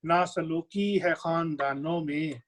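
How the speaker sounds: slow, drawn-out verse delivery; ghazal recitation. Acted. Poet repeats verse for admiring listeners, ghazal recitation. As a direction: stretch each phrase as poetry for the audience.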